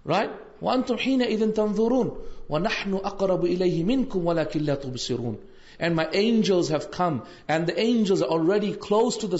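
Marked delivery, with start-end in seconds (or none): 0.6-5.4 fast, flowing recitation of a verse; Quran recitation. Acted. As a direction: recite it smoothly, devoutly.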